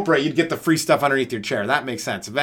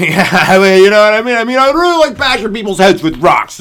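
laughing; 6 semitones higher, 11 dB louder than usual. Real, not acted. Joking, laughing at himself.

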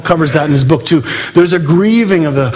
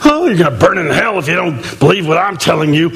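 mock hellfire preacher; faster than usual. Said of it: "harsh wrath Bible thumpers".

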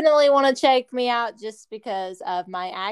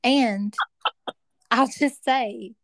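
imitating the host. Guest copying the host's praise back at the host, imitating. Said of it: "I'm trying to be you".

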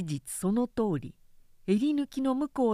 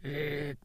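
put-on old man's growl; 6 semitones lower, 6 dB quieter than usual. A narrator's reading. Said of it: "例の「うーっ」を連発した".

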